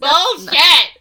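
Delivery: loud, high, laughing protest; exaggerated outrage. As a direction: shout it in mock outrage. Third, escalated comic protest.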